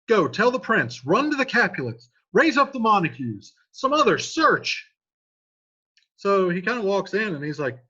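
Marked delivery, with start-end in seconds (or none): 0.1-4.9 urgent orders. Acted. Watchman orders search, read aloud.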